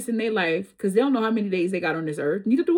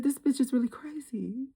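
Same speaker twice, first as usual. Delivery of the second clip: laughing retort; 3 semitones higher, 6 dB quieter than usual. Retold or imitated. Retelling her shocked reaction.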